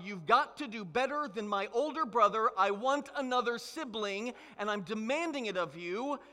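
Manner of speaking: put-on loud, insistent kid bossing God; a young boy demanding a new sibling; childlike demand. Child demands a sibling from God, loud and insistent. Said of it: "I was demanding of God".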